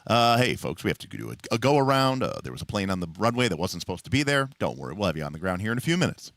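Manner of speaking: casual captain on the intercom; calm folksy pilot reassuring passengers; airline pilot announcement. Retold or imitated. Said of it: "he comes on the plane".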